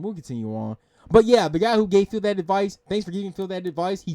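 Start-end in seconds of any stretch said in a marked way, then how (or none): 0.0-0.8 We'll continue on repeated much lower and softer, trailing away. Shown as a demonstration. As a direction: echo the line to yourself, lower and softer.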